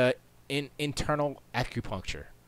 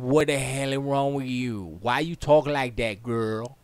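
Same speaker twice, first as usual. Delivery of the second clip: loud mock scolding; put-on indignant confrontation; acted upset; 10 dB louder than usual. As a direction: tell them off loudly, playing it up. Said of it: "I would be so upset".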